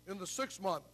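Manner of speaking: a half-hearted deep scripture voice. Shown as a demonstration. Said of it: "wish I could do it a little deeper, but I can't".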